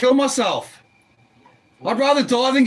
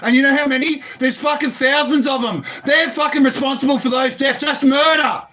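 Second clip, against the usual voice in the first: real, mounting outrage; outraged accusation. Real, not acted. Man blaming system for deaths, outraged accusation. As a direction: hammer out the accusation, building toward a shout.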